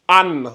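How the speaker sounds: An said as a clear nasal an, held a moment; model sound an. Shown as a demonstration. Teacher models An for students, clear nasal. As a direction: pronounce An slowly and clearly for the class. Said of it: "Ça se lit an".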